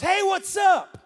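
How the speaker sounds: hallway student's breezy hello; casual loud greeting. Retold or imitated. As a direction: call it out breezily while walking by. Young American greets him passing.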